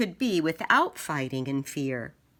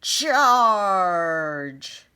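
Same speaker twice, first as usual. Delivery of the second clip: loud shouted charge; battle cry; 2 semitones higher, 7 dB louder than usual. Acted. Knights shouting a loud battle cry. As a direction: yell it as knights rush in.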